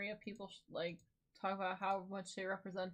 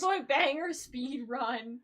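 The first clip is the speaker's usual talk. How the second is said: loud, slow and higher, like an announcer; excited announcing; 5 semitones higher, 9 dB louder, slower than usual. Pretend. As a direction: savour each word of the title. Echoing the title with gusto.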